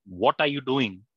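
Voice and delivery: lightly acted bad-mood reading of a question; mildly confrontational. Shown as a demonstration. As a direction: ask it as a mild challenge. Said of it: "not in a good mood".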